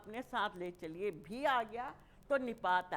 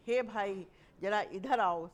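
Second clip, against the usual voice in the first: louder call to a brother; 6 dB louder than usual. Shown as a demonstration. Teacher demonstrating calling someone over. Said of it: "संबोधन कर रहे हैं उसे".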